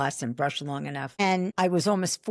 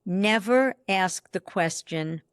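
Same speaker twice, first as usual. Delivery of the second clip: never stretched out and weighted; slow emphatic rule; slower than usual. Shown as a demonstration. Coach quoting her viral clip, slow and emphatic. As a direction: lay down the rule slowly. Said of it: "Okay, you ready? Here's the clip".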